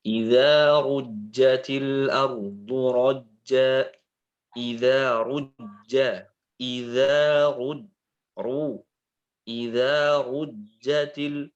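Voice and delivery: Idza rujjatil ardu rajja drawn out slowly; slow recitation. Shown as a demonstration. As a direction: recite slowly so the heavy r is clear. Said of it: "Misalnya apa".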